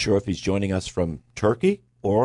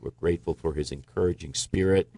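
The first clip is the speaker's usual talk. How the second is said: prayer. Real, not acted. Host prays for Brother Phil, prayerful. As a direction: give thanks and ask earnestly, unhurried.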